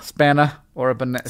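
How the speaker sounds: British "Spanna" rhyming with banana; British accent. Shown as a demonstration. Co-host trying out the listener's rhyme, British accent. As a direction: drop the r in "Spanna", British style. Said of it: "question in a British accent".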